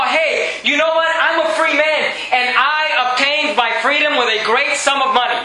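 mock boast, pitched a little up; bragging. Centurion telling Paul about his freedom, bragging. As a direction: brag like a man showing off. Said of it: "He's bragging. He's boasting".

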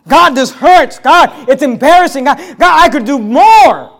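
acted anguished pleading. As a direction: protest your suffering in prayer, imitated. Acts out Paul's anguished complaint.

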